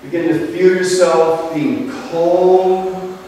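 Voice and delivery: slow, calm breathing guidance with long pauses; guided meditation. Acted. Leading the group into relaxation, calm meditation voice.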